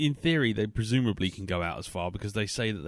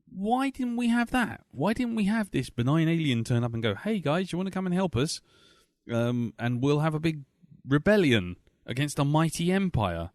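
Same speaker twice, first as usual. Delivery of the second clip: incredulous high pitch; 5 semitones higher than usual. Retold or imitated. Imagined complaint voiced as quote.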